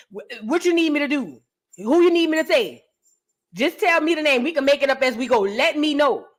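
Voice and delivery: the snitch who can't wait to talk; eager to cooperate. Pretend. Informant offering the feds any name they want, eager.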